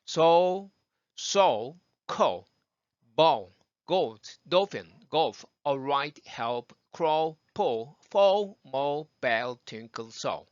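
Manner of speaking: word list run through on held breath; all in one breath. Shown as a demonstration. Teacher's closing drill "한 호흡에", run straight through on one breath. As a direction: chain every word without inhaling, dark L endings. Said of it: "한 번에 쭉 해보고".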